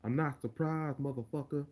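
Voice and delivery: rhythmic Nate Diaz delivery with swagger. Retold or imitated. Streamer showing how Nate said it, with rhythm. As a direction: ride the rhythm of the words. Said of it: "He said it with rhythm".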